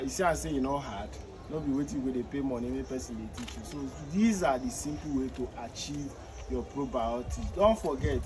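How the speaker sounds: normal talking voice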